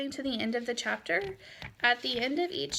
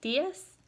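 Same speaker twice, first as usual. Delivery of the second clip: "Días" said higher with a rising end; questioning rise; 5 semitones higher than usual. Shown as a demonstration. Teacher isolating the question intonation, "Días" rising high. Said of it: "that intonation lets you know".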